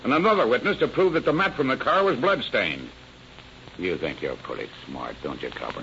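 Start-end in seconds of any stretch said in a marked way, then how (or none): 3.8-5.8 quiet sneer. Acted. Suspect sneers at the detective.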